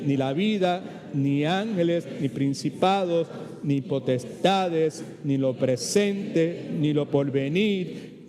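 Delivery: slow, measured group reading aloud; congregational reading. Real, not acted. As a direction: read it together slowly, word by word. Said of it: "Vamos a leerlo todo el mundo". (lectura lenta y pausada en voz alta con la congregación)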